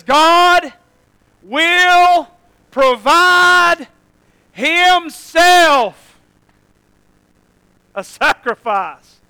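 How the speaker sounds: high, loud, very slow proclamation; Abraham answering. Acted. Abraham answering his son, solemn and ringing. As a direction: stretch out each word like a vow. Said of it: "looks back at him and says".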